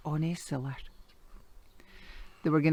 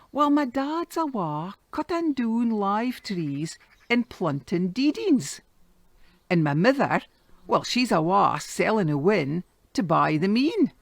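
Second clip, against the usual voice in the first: put-on boy's voice; 3 semitones higher, 3 dB louder than usual. Boy answers the moneylender.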